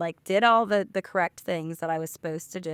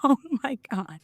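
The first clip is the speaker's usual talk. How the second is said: mock dismay; 6 semitones higher than usual. Retold exasperated reaction.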